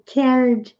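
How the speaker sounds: "Cared" ending in a D sound, silent E; "Cared" closes on a voiced D; Cared with final d. Shown as a demonstration. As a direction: say "Cared" as one syllable, kerd. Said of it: "Mas aqui é som de D".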